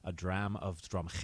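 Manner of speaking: Scottish accent with a throaty ch in Drumhicket; deliberate Scottish pronunciation of "Dram of Drumhicket". Shown as a demonstration. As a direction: say Drumhicket like a Scot, with a guttural h. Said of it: "Scottish bartender".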